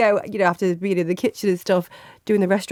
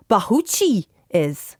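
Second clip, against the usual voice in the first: mock Scottish accent; slower than usual. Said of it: "incredible accent".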